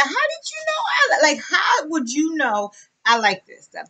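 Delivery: high squealed disbelief, then easing down; acted-out astonished outburst; retold amazement. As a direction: squeal it as a replayed shocked reaction. Acting out her amazed reaction.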